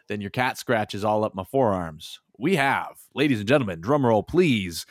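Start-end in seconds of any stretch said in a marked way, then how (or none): 2.4-4.8 dramatic reveal. Acted. Dramatic announcement.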